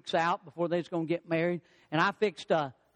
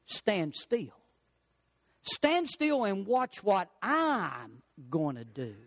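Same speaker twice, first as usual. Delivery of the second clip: calm voice of God; slower than usual. Acted. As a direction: hush them gently, slowly, as God. God's calm reply.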